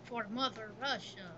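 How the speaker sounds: half-hearted fake Russian accent; bad Russian accent. Gamer rallying for Mother Russia, weak Russian accent. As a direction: attempt a Russian accent, badly. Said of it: "You don't do a good Russian accent".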